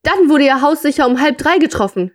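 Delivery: story dialogue. A narrator's reading. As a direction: voice the man explaining, as in a story.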